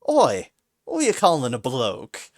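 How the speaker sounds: loud indignant Cockney bark; Oi, shouted at the mouse; angry bark. A narrator's reading. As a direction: snap back, offended. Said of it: "Kid barked angrily".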